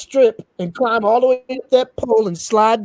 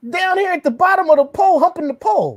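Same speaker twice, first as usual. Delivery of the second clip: amused disbelief; 9 semitones higher than usual. Real, not acted. Mocking amazement at a cover.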